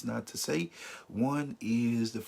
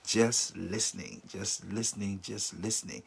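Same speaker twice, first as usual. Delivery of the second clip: soft repeated listening. Shown as a demonstration. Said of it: "not saying anything, just listening".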